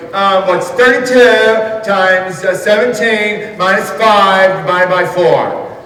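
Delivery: math teacher. Retold or imitated. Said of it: "the teacher goes".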